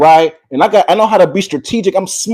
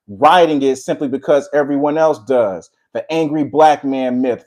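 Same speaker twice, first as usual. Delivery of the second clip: reading aloud. Acted. Reads a prepared text.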